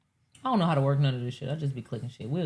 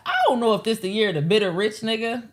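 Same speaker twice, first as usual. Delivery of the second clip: quoting her diss; 7 semitones higher, 6 dB louder than usual. Retold or imitated. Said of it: "She said".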